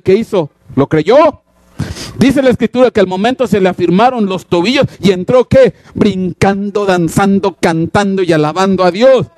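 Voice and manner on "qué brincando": ordinary talk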